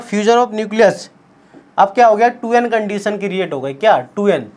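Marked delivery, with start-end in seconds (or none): 0.0-1.1 slow emphasis. Shown as a demonstration. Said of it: "याद रखना".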